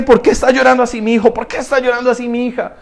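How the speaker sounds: high, quick questions, softening on the second; acted concerned Father. God asks his weeping children why they cry, tender concern. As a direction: ask like a tender father, hurried and hushed at the end. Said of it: "Y dice".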